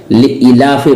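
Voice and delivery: लिईलाफि with a short second i; common wrong reading. Shown as a demonstration. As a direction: pass quickly over the "ee" in लिईलाफि. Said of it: "नहीं है कुरान में". (लिईलाफि में ई छोटी, ग़लत)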